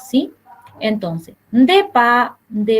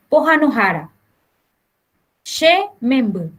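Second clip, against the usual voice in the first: lightly voiced mother. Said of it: "una señora le dice".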